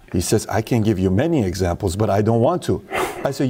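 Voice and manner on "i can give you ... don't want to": lightly voiced six-year-old, pitched low; a hint of a serious little boy; imitated young son. Six-year-old son answering dad's challenge, lightly imitated low voice. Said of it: "this is how he talks to me".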